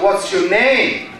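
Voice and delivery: slow question, "name" drawn out and lifted; high intonation pattern. Shown as a demonstration. Teacher contrasting question types, high pattern on "name". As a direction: stretch and arch "name". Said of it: "This is a high pattern".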